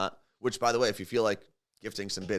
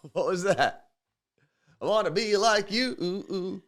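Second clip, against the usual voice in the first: orangutan voice; 7 semitones higher, 3 dB louder than usual. Retold or imitated. Orangutan impression, singing jungle song.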